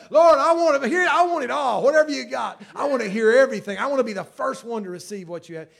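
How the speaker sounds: crying out loud and high, eager; excited plea. Retold or imitated. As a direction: beg the Lord at full voice, hungry for every word. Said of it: "she wanted to".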